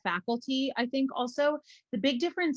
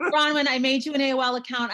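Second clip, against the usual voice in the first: laughing through the mother's words, higher; laughing quote; 5 semitones higher, 6 dB louder than usual. Retold or imitated. Retelling her mother's message through giggles. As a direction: let the laugh break into the quote.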